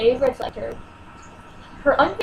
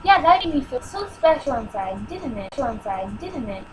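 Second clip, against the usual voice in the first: sarcastic; 2 semitones lower than usual. Real, not acted. Bitter sarcastic aside.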